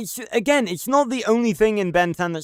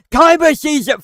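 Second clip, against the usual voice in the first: much higher and louder, a shrill cartoon taunt; mocking cartoon squeal; 10 semitones higher, 8 dB louder than usual. Mocking the fight scene with a loud high cartoon voice. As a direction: squeal it like a goofy cartoon bit. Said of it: "they literally go".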